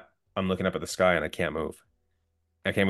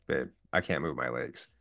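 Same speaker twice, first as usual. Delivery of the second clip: calm, lower and softer; quietly level, keeping panic out; retold calm; 5 semitones lower, 6 dB quieter than usual. Husband telling his wife he's hurt, low and calm. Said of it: "just as calm as I can be".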